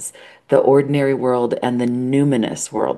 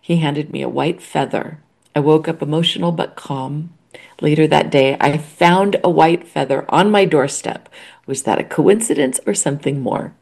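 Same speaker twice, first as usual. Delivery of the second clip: tearful reading, pitch a touch raised; choked up; 3 semitones higher than usual. Real, not acted. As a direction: press on reading despite welling tears. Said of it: "I'm already all choked up".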